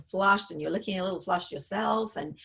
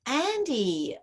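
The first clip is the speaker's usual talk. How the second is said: sharp, annoyed calling of her name; irritated call; 4 semitones higher than usual. Retold or imitated. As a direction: snap the name out in mild irritation. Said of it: "you might be irritated".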